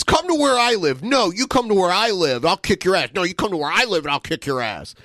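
mock tough guy. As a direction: parrot the fight threats to ridicule them. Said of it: "It's so dumb".

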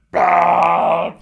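high, loud put-on bah; loud mock blurt. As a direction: blurt it like a cartoon outburst. Amanda blurting with Cheez-Its.

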